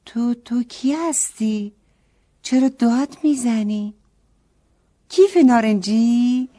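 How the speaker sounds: put-on a girl stunned speechless, halting; stunned stammer. A narrator's reading. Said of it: "از تعجب ... زبونش بند اومده بود".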